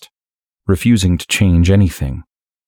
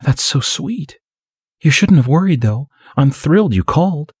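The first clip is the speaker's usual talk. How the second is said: high, whiny and gushing; 10 semitones higher than usual. Acted. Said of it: "in her whiny little voice".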